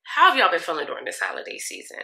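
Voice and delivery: deliberate, evenly paced retake of "How have y'all been feeling"; slowed down. Shown as a demonstration. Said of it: "let me slow down".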